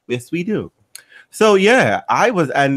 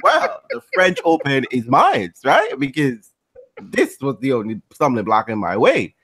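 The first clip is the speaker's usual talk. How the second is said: mock smug Gabi. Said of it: "was just like".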